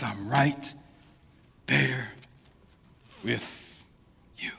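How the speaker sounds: near-whispered, drawn-out reassurance; whispered God. Acted. God whispering comfort to the hurting listener, very soft. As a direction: breathe it close like a whisper.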